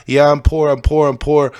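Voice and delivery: lightly mock someone claiming to be poor; mock pleading. Mocks the rich pretending poverty.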